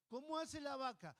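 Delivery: put-on high, loud sing-song question to a baby; baby talk question. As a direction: coo it to the little one like a doting parent. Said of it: "le decían al bebé". (pregunta aguda y cantarina a un bebé)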